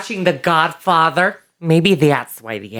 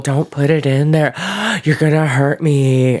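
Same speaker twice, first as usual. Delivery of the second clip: mock pleading with a gasp; lightly acted frightened protest; helpless, submissive. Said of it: "helpless and submissive".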